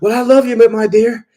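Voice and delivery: put-on high, pleading old man on voicemail; imitating a lovesick old husband; mock old husband. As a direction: put on a frail, doting old man's voice. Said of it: "he's like".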